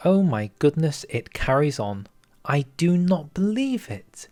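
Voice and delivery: rising, slowing as the shock sinks in; stunned, pitch lifting; amazed disbelief. Real, not acted. Reacting to the focus tree in real amazement.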